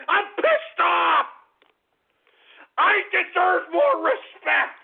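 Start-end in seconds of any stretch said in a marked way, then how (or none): 0.1-1.3 slow, emphatic, shouting it out; angry declaration. Acted. Radio host to callers, slow angry shout. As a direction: spell out the anger word by word.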